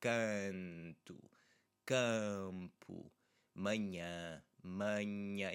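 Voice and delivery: "canto" and "campo" with a nasal a; nasal a demo. Shown as a demonstration. Teacher drilling "canto" and "campo" for students, nasal. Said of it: "you should feel the vibration here".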